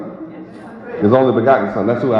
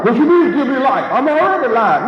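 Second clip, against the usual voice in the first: mocking skeptic; 7 semitones higher than usual. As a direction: ham up the scoffing bystander. Preacher voices a doubting listener.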